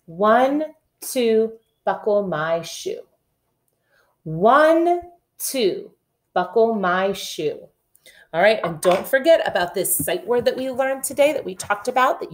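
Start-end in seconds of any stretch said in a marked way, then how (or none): 0.0-3.0 put-on reading to children. Shown as a demonstration. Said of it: "Here we go". 4.2-7.7 put-on reading to children. Shown as a demonstration. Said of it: "repeat reading".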